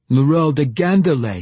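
high, loud cackling crone voice; old gnome woman. Acted. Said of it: "he cackled, sounding like an old gnome woman".

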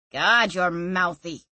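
sighing. Acted. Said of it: "he sighed".

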